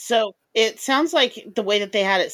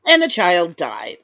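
solemn echo; 5 dB louder than usual. Retold or imitated. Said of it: "echoing the solemn line".

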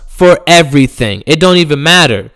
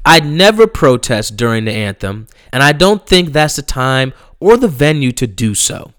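mock reading; 4 semitones lower, 5 dB quieter than usual. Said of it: "I'ma read the comment to you".

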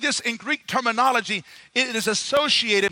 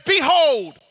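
proclaiming; 3 semitones higher, 4 dB louder than usual. Acted. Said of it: "and he says".

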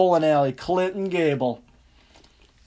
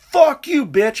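mock yell, pitched up on the curse; retold shouting; 5 semitones higher, 3 dB louder, slower than usual. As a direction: curse out an object like an ex, half shouted. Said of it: "I'm fucking shouting at my fucking bowling ball".

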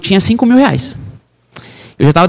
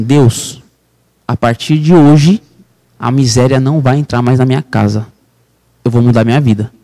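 earnest prayer to God; 4 semitones lower than usual. Retold or imitated. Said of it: "eu falei assim".

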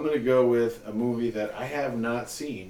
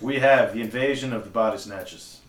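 put-on Mid-Atlantic accent; 5 dB louder than usual. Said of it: "Gonna do it in a Mid-Atlantic accent".

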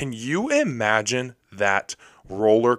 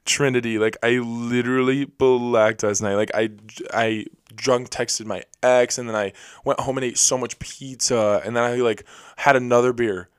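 mocking party girl. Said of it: "and they're like".

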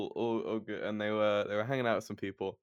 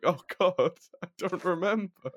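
mock dismay; 8 semitones higher than usual. Flatmate's dismay retold.

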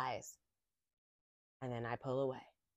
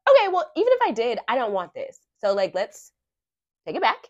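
pretend sassy comeback; 3 semitones higher, 6 dB louder than usual. To the drive-through worker, a mock snappy demand. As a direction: act out the rude reply she never gave. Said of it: "Of course, I didn't say it like that".

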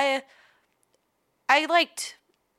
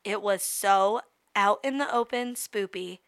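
storybook narration; 2 semitones lower than usual. Acted. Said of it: "I'm gonna read to you like a story".

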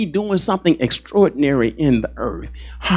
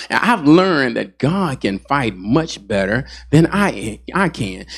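slower, each word weighed; slower repeat; slower than usual. Shown as a demonstration. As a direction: let it sink in slowly. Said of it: "repeats the line slower".

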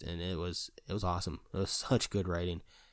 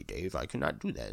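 lightly voiced machine refusal; refusing computer; 4 semitones lower than usual. Computer refusing Dave's order, lightly voiced machine. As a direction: drop down from the wail into a measured refusal.

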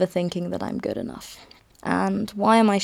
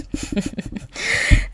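real voiceless chuckle; breathed laugh. Real, not acted. Laughs after girlfriend remark.

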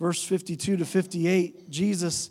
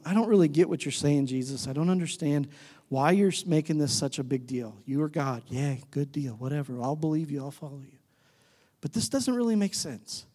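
grumbling; 3 semitones lower than usual. Acted. Believer complaining to Jesus, half-hearted grumbling. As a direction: grudgingly go along, muttering toward the end. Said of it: "And we grumble".

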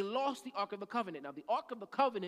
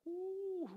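preacher's soft hoot; 7 semitones higher, 6 dB quieter than usual. Real, not acted. Exclaims after making his point.

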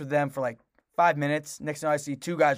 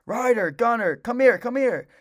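high, raised call to dogs; calling dogs over; 8 semitones higher, 4 dB louder than usual. Retold or imitated. Owner calling two dogs back across the park, high urgent recall. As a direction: re-enact calling your dogs back, pitched well up. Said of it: "so I start calling my dogs over".

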